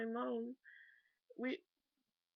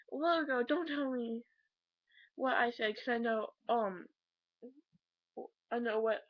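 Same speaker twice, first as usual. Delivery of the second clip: imitating angry mom; 5 dB louder than usual. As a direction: play the mother snapping back, retold but heated. Acting out mom's angry scolding.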